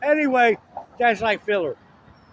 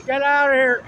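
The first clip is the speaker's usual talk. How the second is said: higher, much louder mock yell; dad shouting; 5 semitones higher, 6 dB louder than usual. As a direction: order him out, loud and high. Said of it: "James's dad says".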